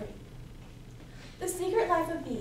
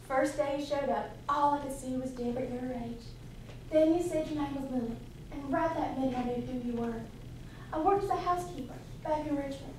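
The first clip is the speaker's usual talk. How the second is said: lightly voiced knowing guardian, lower; steady, measured reassurance in a lower register; calm older beekeeper; 4 semitones lower, 4 dB quieter than usual. Beekeeper tells girl she knew her mother, calmly. Beekeeper answers girl's revelation.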